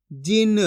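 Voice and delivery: "जिन" with short i and a half-sounded न; half final consonant. Shown as a demonstration. Teacher blending letters for learners, "जिन" with half-sounded न. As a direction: clip the vowel after न in "जिन". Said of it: "last वाला अक्षर का उच्चारण आधा करना है".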